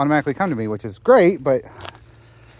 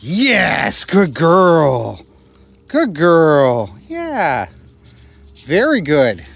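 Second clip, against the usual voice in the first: praising a dog; 5 dB louder, much slower than usual. Real, not acted.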